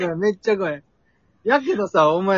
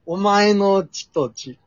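very slow recitation; much slower than usual. Acted. Reciting slowly.

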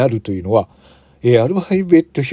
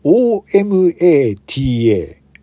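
slow spelling; 3 semitones higher, slower than usual. Shown as a demonstration. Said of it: "アルファベット表記にすると".

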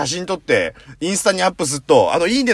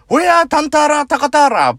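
English-hybrid gibberish; 12 semitones higher, 8 dB louder than usual. Retold or imitated. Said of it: "ハイブリッドなんだよ".

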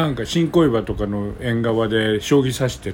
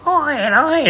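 put-on high, feeble old man calling; 13 semitones higher, much slower than usual. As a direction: call out like a dying old man. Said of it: "八十歳みたいな声".

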